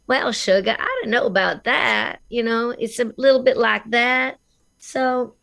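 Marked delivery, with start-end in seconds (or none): 0.1-2.2 a hint of Southern belle; Southern accent. Shown as a demonstration. Showing the American Southern accent, lightly done. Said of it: "like for the Southern".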